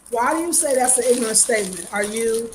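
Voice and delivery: talking while chewing popcorn; munching popcorn. Real, not acted. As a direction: mouth full of popcorn. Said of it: "I'm sorry, I'm eating popcorn".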